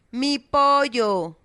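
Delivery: put-on an old neighbour shouting about her lost chicken; shouted. A narrator's reading. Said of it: "gritó".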